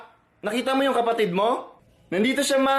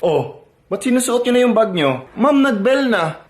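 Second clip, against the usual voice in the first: classroom argument; 7 dB louder than usual. Acted. Teacher and student argue.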